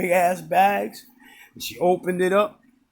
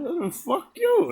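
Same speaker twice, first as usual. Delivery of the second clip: insulted inner retort; 12 semitones higher than usual. Retold or imitated.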